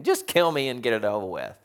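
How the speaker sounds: mock melodramatic plea; Jonah, over the top. Preacher mimicking Jonah's complaint to God, over the top. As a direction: ham up the despair a touch. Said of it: "a little over the top".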